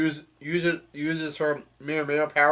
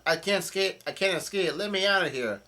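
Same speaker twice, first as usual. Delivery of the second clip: higher voice, no real volume; half-hearted imitation of yelling for help; mock yell; 5 semitones higher than usual. Retelling Carrot trapped inside a mirror, restrained high mock yell. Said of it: "Carrot continues to yell out".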